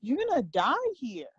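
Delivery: mock scolding, pitch rising and falling on the key words; God's scolding. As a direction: imitate God giving a pointed warning. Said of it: "this is the way he talks to me".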